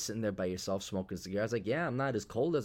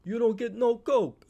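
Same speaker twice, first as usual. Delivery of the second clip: movie quote voice; 7 dB louder than usual. Retold or imitated. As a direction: gloat like a stern shopkeeper. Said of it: "that quote from the movie".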